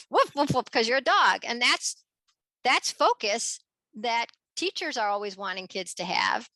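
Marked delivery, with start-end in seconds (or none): 0.1-0.7 mock woofs, not a real bark; playful dog barks. Kids playing dogs, playful mock woofs. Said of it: "You have to say".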